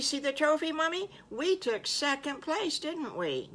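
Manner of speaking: put-on high, gushing child voice; high-pitched, delighted piglet chatter; excited little piglet. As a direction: bubble over like a thrilled little piglet telling Mommy. Piglets excitedly recalling sandcastles.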